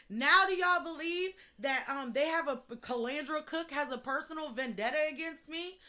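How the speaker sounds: indignant near-shout; outraged. Real, not acted. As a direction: throw the question at the viewers. Outraged appeal to viewers.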